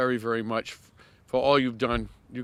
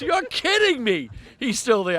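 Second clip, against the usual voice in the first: imitating him again; 9 semitones higher, 3 dB louder than usual. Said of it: "He goes".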